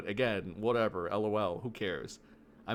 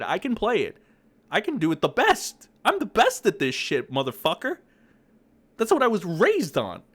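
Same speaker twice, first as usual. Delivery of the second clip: higher, louder bragging; 4 semitones higher, 4 dB louder than usual. Real, not acted. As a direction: brag it forcefully. Loud boasting.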